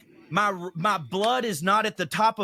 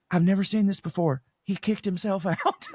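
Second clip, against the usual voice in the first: amazed, laughing. Retold or imitated. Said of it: "She goes".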